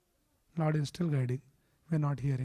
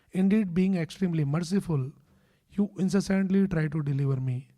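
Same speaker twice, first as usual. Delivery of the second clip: louder, earnest recitation of the prayer; devotional prayer reading; 4 dB louder than usual. Acted. Gajendra the elephant begging the Lord for release, louder earnest prayer. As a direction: read it out fervently, as if pleading to God. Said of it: "So he's saying".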